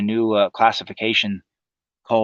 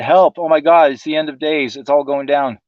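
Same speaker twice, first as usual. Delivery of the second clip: mock panic; 4 semitones higher, 4 dB louder than usual. Survivors' panicked posts read out.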